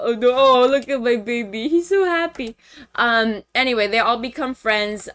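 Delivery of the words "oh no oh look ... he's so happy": gushing put-on voice climbing high at the end; doting coo. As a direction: fuss over a baby, half mocking. Cooing over the happy character.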